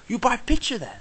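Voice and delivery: high hawker pitch; a light pushy seller voice; imitated hawker. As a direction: hawker pushing a picture. Hawker selling pictures.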